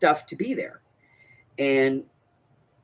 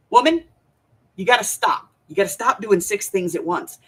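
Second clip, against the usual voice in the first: high, loud opening that eases down, imitating a fed-up husband; playfully hammed-up scolding; mock scolding husband; 5 semitones higher, 4 dB louder than usual. Husband tells his wife to stop multitasking, mock scold.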